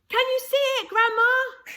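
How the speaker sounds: put-on a boy amazed at the magic; excited yell. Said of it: "George shouted".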